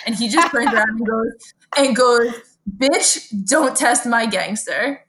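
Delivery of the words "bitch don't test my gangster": imitating a friend's gangster bluster; mock Brooklyn threat. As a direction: draw out a retold tough-guy warning. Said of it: "pull the Brooklyn out of me".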